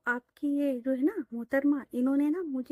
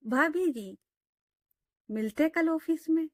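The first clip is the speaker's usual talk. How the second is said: higher, sing-song teasing lilt; 5 semitones higher than usual. Acted. Friend teasing her colleague as bhabhi, playful teasing tone. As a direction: tease her with a playful up-tilt. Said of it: "रिया उसे tease करते हुए बोलती है".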